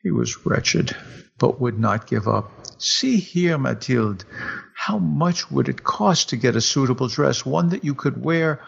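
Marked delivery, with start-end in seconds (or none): 2.8-8.6 higher, eager husband pleading his case; a keen husband coaxing his wife; husband's voice. Acted. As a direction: raise the pitch for the hopeful husband.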